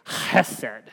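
low, throaty rasp on the opening CH of "Chesed"; deep guttural voice. Shown as a demonstration. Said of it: "use your deepest guttural voice".

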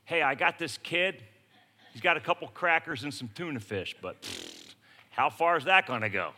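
a hint of dry sarcasm; sarcastic. Andrew to Jesus about the boy's lunch, mild sarcasm. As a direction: Andrew doubts the crackers, lightly mocking. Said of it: "sarcasm in Andrew's voice".

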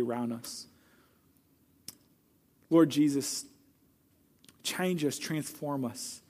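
hushed, earnest prayer that fades to a near-whisper at the end; closing prayer. Acted. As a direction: speak to God humbly, letting each petition settle. Pastor leads closing prayer.

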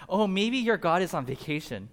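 mock-innocent taunt. Elijah teasing the prophets about their god, mocking. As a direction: tease them with a pretend helpful guess. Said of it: "he starts mocking them".

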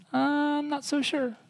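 a put-on skeptic's doubt; the people doubting God, skeptical; doubtful.

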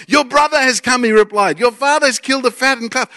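excited reading. Shown as a demonstration. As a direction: read it like wonderful news. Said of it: "read the Bible a bit like this".

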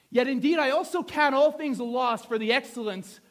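emphatic Bible reading, slowing on the final words; scripture reading. Acted. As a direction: declaim the apostle's words firmly. Reads scripture aloud with force.

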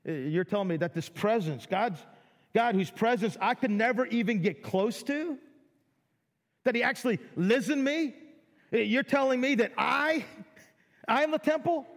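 wide-eyed, rising disbelief; amazed disbelief. Retold or imitated. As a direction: play the stunned listener who can't believe it. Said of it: "And they're like".

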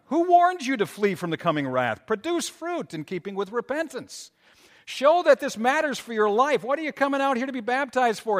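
high, loud preaching at full force; prophet's fiery rebuke. Retold or imitated. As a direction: thunder the warning at the crowd. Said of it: "He goes on".

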